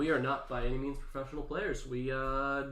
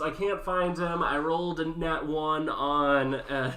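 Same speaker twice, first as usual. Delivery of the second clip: whiny pixie; 4 dB louder, slower than usual. Acted. Player mocks pixie's trivial wish.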